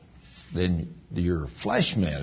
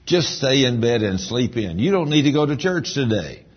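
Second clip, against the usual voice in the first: flesh tempting; 3 semitones higher than usual. Retold or imitated. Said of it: "your flesh will say".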